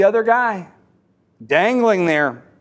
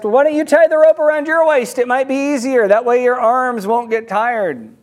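higher, lightly called-up suggestion; suggesting; 3 semitones higher than usual. Acted. Dangling man advising his rescuer, suggesting. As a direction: offer it from below, higher at first, then easing. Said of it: "the guy down there suggests".

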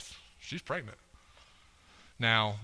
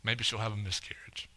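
inner thought; 4 semitones lower, 6 dB quieter than usual. Retold or imitated. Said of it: "I remember thinking in my head".

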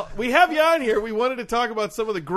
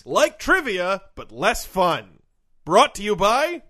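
announcer; 4 dB louder, slower than usual. Pretend. Announcing segment tagline and sponsor.

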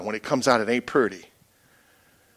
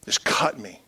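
whispered; 3 semitones lower, 5 dB quieter, slower than usual. Real, not acted. Recalling the uncle's cutting words.

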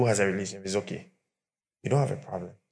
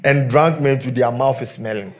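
louder, indignant wife complaining; defiant wife; 3 semitones higher, 6 dB louder than usual. Retold or imitated. Preacher voicing a fed-up wife refusing her drunk husband.

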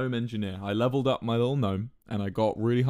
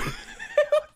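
high, squealing laugh fit; helpless laughter. Real, not acted. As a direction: lose it completely. Laughing at own story.

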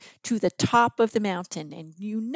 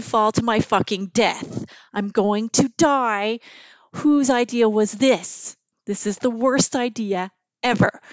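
mild mock panic, building louder; retold panic; 4 dB louder than usual. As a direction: dramatize dread, stretching the key words. Retold panic during the ride.

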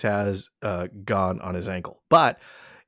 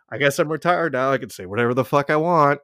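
retiree's defiance; 5 semitones higher, 6 dB louder than usual. Retold or imitated. Acted liberated retiree.

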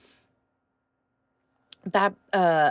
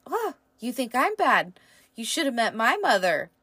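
laughing; 3 semitones higher than usual. Retold or imitated. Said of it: "And Saoirse was like".

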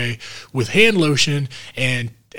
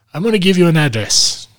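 higher-pitched mock German accent; 5 semitones higher, 4 dB louder than usual. Film doctor sending his patient somewhere, in a German accent. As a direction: imitate a German doctor making an announcement. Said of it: "he's talking with a German accent".

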